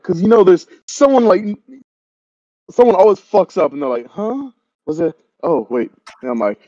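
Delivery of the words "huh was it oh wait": confused double-take. Acted. Someone who messes up catching on late, mildly confused. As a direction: softly caught off guard, pitch falling.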